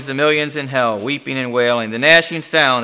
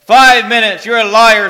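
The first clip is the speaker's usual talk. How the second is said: loud, raised, outraged protest; screamed disbelief; 9 semitones higher, 10 dB louder than usual. A narrator's reading. Damned man disputing the demon's count, screaming. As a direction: throw the words back as an accusation. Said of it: "screams the man".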